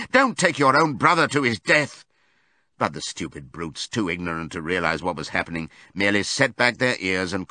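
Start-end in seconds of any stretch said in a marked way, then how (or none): 0.1-2.0 high, desperate appeal; pleading shout. A narrator's reading. Animals begging the horses to stop, pleading shout. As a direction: beg them loudly to stop. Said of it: "they shouted".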